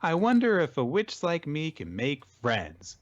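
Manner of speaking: high, put-on girlish worry; mock freak-out in character; fretting young witch. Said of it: "freaking out over it".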